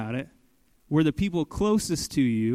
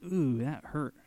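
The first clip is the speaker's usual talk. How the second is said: hurt wince; 6 dB quieter, slower than usual. Retold or imitated. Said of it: "You just feel like".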